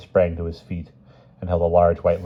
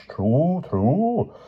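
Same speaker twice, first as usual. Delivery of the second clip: high, lilting agreement; amiable agreement; 10 semitones higher than usual. A narrator's reading. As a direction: agree amiably with lifted pitch. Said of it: "Vermeer agreed amiably".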